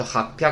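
八百 as Japanese "happyaku", with double p; special sound change. Shown as a demonstration. Teacher shows students the irregular eight hundred, double p in 八百. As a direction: say 八百 as "happyaku", stopping on the p. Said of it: "哎，特殊".

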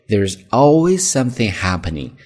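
teacher's model with emphatic always; stress on ALWAYS. Shown as a demonstration. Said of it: "强调".

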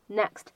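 "next" with the K held, barely released; incomplete plosion. Shown as a demonstration. Teacher demonstrating incomplete plosion in "next". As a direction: stop the K sound inside "next" without a puff. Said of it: "它本身包含了一个不完全爆破".

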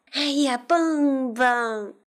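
loud, slow, drawn-out name; touched exclamation. Acted. Frog moved by his friend's rescue, drawn-out touched cry. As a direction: draw it out with affection.

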